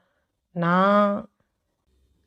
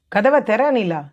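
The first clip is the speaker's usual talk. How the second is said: scolding. Acted. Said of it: "Mugil அதட்டியிருந்தான்".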